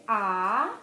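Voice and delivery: saying ahh. Shown as a demonstration. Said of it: "next I want you to say".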